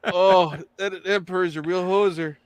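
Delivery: put-on light Canadian accent. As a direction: say it like a hoser. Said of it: "A s-, slight Canadian accent".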